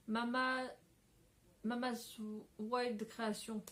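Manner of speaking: English name in a French accent; unpolished French-accented English. Real, not acted. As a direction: say the English words with your own French accent. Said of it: "avec mon super accent comme d'habitude".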